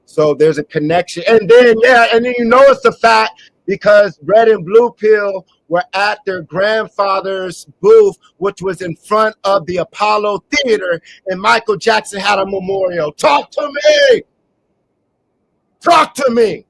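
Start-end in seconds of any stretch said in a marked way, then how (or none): 1.3-13.1 excited. Real, not acted. Excited claim about a singer. 13.1-14.2 very high, loud shout; high piercing shout, slowed. Real, not acted. Shouting to the audience. 15.8-16.7 higher and louder but not a full shout; strong call, less than a scream. Real, not acted. Repeats the call.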